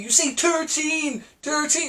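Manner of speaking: "thirteen" said as "turteen", th as a hard t, drawn out slowly; mock Irish thirteen. The speaker mimicking the Irish fans' "thirteen", hard t. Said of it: "can't even say the number thirteen properly".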